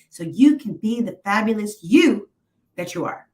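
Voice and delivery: motivational speaker. Real, not acted. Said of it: "Sorry if I sound like a motivational speaker".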